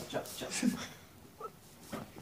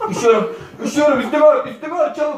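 teeth chattering with cold; shaky, shivering voice; 10 semitones higher, 9 dB louder than usual. Real, not acted. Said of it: "Beyler, titriyorum".

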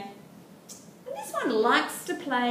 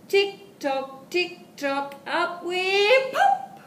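higher and louder, slow pop up; excited pop; 9 semitones higher, 6 dB louder, slower than usual. Acted. Teacher popping up like toast for toddlers, excited. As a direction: build up, then burst out on pop.

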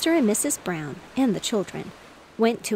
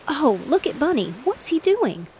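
put-on high, louder little girl's call; 7 semitones higher, 5 dB louder than usual. A narrator's reading. Sue points out her brother's antics, calling out. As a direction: pitch it up and call attention to something. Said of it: "Just then Sue called".

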